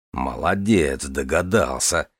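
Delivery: put-on low, slow, kindly older man. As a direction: praise him gently and slowly. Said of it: "посмотрел на него Железовский благожелательно". (добродушно, неторопливо)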